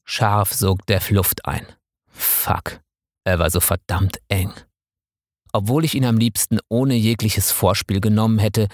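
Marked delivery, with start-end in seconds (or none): 2.1-2.8 geflüsterter Fluch. Acted. Figur flucht leise in Erregung.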